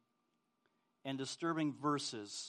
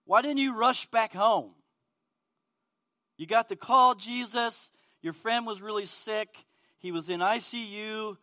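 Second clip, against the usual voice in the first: higher, louder, distraught sisters questioning Jesus; Mary and Martha pleading; 6 semitones higher, 9 dB louder than usual. Retold or imitated. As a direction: voice the grieving sisters' frustrated plea. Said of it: "I could hear Mary and Martha".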